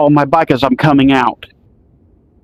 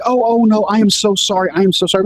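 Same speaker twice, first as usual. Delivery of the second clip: flustered apologizing mom; 5 semitones higher than usual. Retold or imitated. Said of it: "She's like".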